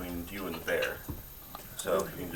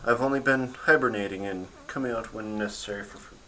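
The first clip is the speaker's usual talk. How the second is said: bear voice; 4 semitones higher, 5 dB louder than usual. Acted. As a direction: speak as a calm wild bear.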